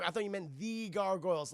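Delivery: "the" said as a stressed "thee"; single out "the" as "thee" before "gargoyles". Retold or imitated. Puck explaining his mistake to Demona, "the" as "thee". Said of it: "like, the main character".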